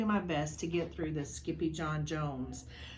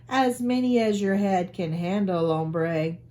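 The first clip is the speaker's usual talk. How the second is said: put-on Spanish accent; 8 dB louder than usual. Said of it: "using his very best Spanish accent".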